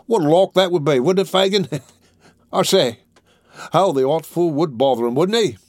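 high, loud Cockney lad, thrilled; gleeful. A narrator's reading. Charlie relishing the Dodger bothering the court, gleeful. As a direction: crow with delight at the prank. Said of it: "laughed Master Bates".

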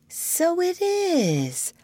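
unconvinced. Acted. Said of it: "but not with much conviction".

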